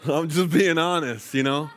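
earnest admission. Real, not acted.

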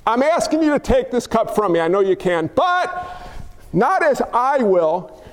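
slowing, surrendering prayer; mild earnest prayer. Acted. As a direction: pray it humbly, slowing at the end. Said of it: "how Jesus prayed".

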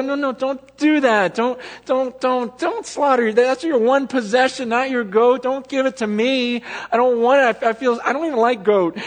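high, loud, flustered protest; pleading with the family not to slaughter the goat. Pretend. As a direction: beg them to stop, embarrassed. Begging poor family not to give.

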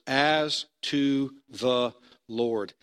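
very slow, each word weighed apart; slow scripture reading. Shown as a demonstration. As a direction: read the verse slowly, letting it land. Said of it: "As we read in that last verse".

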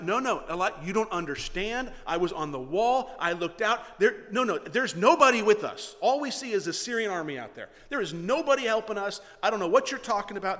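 loud, insistent, agitated objection; protest. Acted. Servant disputing the prophet's assurance, loud protest. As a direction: argue back in exasperated disbelief. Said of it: "I can just imagine the protest".

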